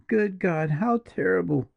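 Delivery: high, appalled gasp of words; horrified. A narrator's reading. Julia reacting to the killing, appalled and high. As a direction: let the horror rise in the voice.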